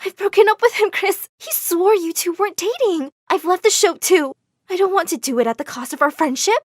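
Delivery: tearful. Acted. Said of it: "She started to cry and said".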